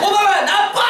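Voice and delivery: high mock telling-off; pretend scolding. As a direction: scold someone absent to please a child. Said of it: "이렇게 해줘야 돼".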